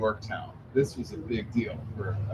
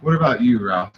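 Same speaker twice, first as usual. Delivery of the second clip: louder retold question; 2 semitones lower, 4 dB louder than usual. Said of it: "I'll never forget this as long as I live".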